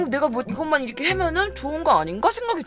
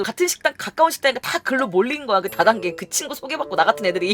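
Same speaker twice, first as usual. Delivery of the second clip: usual speaking voice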